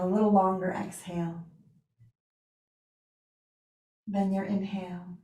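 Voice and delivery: unhurried yoga teacher voice with long pauses; guided relaxation. Real, not acted. Yoga teacher settling students for Yoga Nidra, guided relaxation. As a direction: ease them into rest, leaving space between phrases.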